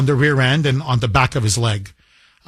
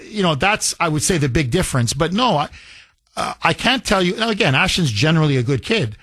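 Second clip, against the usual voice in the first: normal talking voice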